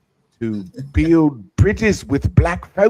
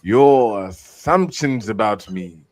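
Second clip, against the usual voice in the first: hammed-up old English accent, louder, grand; mock Elizabethan English accent; 5 dB louder than usual. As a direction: read it like a pompous Elizabethan noble. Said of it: "that English Elizabethan accent".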